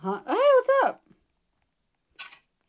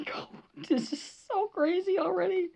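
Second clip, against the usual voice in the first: whispered laugh; 8 semitones higher, 6 dB quieter than usual. Real, not acted. Laughing whisper after the chase.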